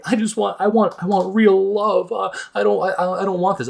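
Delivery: high-pitched, mocking impression of her; mock lovesick woman. Man mocking Rose wanting real love, high mock-pleading voice. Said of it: "and she's like".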